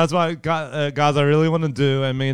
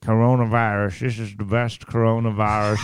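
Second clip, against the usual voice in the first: Donald Trump impression; 2 semitones lower than usual. Friend dared to do Trump on the podcast: light Trump impression. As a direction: play a boastful president, only a little off your own voice. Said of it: "Do Donald Trump".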